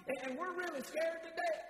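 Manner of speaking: a preacher voicing scared believers, shouting. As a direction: shout it like you're terrified. Acted quote of fearful believers.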